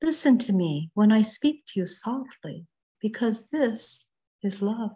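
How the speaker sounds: unhurried poem recital with weighted pauses between phrases; poetry reading. Acted. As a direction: read it as a gentle plea to be heard. Reads When I Speak Softly.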